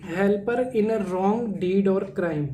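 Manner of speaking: very slow, word by word; slow definition read for notes; slow dictation. Shown as a demonstration. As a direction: dictate each word slowly. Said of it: "teacher dictates definition slowly".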